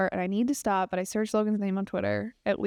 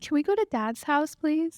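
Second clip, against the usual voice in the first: higher, lightly voiced little kid; imitated pleading child; 5 semitones higher than usual. Wife playing her husband as a child asking mom, light kid voice. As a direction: ask sweetly like a child begging.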